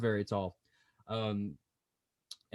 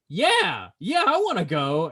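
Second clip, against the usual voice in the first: imagined eager challenge; 4 semitones higher, 4 dB louder, slower than usual. Pretend. Imagined person accepting the fight challenge.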